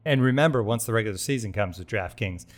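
upbeat sponsor read. Acted. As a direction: sell it like a podcast ad host. Host reads sportsbook sponsor ad.

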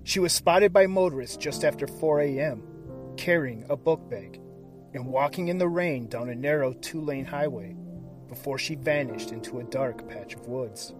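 hushed, dramatic true crime narration; suspenseful crime show narrator. A narrator's reading. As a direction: build suspense like a crime documentary. Dramatic cold open over music.

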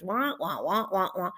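lightly voiced muted-trumpet wah wahs; understated cartoon teacher wah-wah; Snoopy adult wah-wah. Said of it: "like the Snoopy cartoon with the adult noise".

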